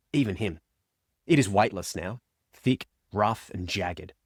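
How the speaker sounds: measured, dramatic audiobook reading; story narration. A narrator's reading. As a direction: read the novel aloud with grave, deliberate pauses. Reads a passage of the novel aloud.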